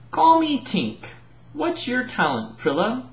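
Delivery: eager Tink. Acted. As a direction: press her for the answer, hopeful. Tink eagerly asks Prilla.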